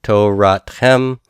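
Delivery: to rat chem said slowly with chem stressed; teacher sounding out to rat chem. Shown as a demonstration. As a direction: spell out to rat chem, leaning on chem. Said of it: "the second masculine plural pronoun".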